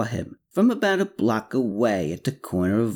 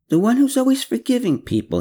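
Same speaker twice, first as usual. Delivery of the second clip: higher, louder and fast; eager; 5 dB louder, faster than usual. A narrator's reading. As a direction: blurt it out eagerly. Ivo eager answer, loud high fast.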